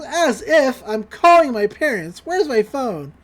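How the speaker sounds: mild, drawn-out indignant yell; mock scream. Pacifica tied up, screaming at her captors, mildly mocked. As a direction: imitate a captive's outraged cry, held back. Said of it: "Pacifica screams".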